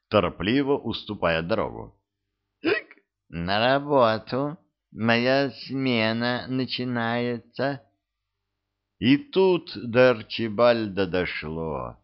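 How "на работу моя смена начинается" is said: high, slow tipsy drawl; slow tipsy lady voice; drunk lady. Acted.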